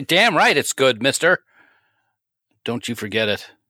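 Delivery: teasing, playfully angry-sounding tone. Replying to a co-host who just said his week sounded good, mock-angry. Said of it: "you're you're very angry".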